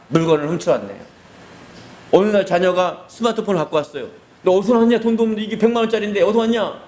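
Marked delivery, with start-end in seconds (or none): 4.4-6.7 put-on a father grilling his kid; stern father questioning. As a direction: demand to know where it came from. Father questions child about phone.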